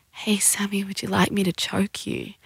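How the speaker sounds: soft, sensual whispered invitation. Acted. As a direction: whisper it seductively into a lover's ear. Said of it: "sensually whisper in your ear".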